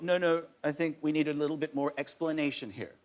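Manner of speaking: lightly voiced American accent, half-hearted. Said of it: "That's my American accent".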